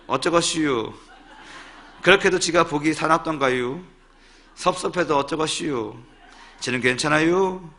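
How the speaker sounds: playful Chungcheong accent, lingering on each ending; Chungcheong dialect. Shown as a demonstration. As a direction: recite the poem comically in Chungcheong satoori. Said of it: "충청도 버전이 더 재밌는 것 같아요".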